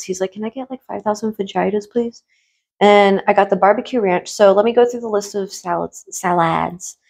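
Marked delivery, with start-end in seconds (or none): 0.3-2.2 lightly voiced cartoon request, very soft; a hint of a Family Guy character; Family Guy quote. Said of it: "it's like a Family Guy reference".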